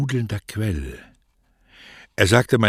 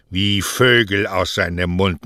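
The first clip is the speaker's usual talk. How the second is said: mocking echo; 6 dB louder than usual. Mother echoes her mockingly.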